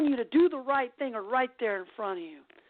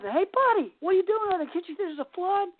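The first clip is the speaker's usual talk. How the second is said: higher-pitched mild holler; mock calling out; 6 semitones higher than usual. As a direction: call up to him as if shouting, without full volume. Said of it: "they screamed up".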